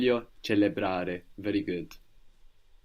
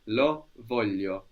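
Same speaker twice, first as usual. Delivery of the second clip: slow model phrase; slower than usual. Shown as a demonstration.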